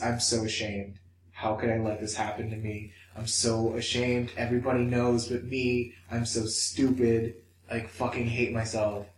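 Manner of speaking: a touch of despair, turned inward; ashamed. Retold or imitated. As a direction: recount anxious thoughts with understated shame. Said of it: "That is, like, the worst anxiety".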